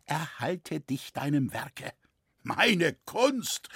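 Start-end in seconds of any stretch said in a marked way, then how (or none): 2.4-3.7 high, fiery cry; with fire. A narrator's reading. Roritzer defends his art with fire. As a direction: fling out the words with passion. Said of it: "rief Roritzer mit Feuer".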